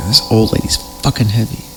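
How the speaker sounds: quiet, fast muttered complaint; muttered aside. Real, not acted. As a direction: grumble it under your breath. Muttered aside while carrying.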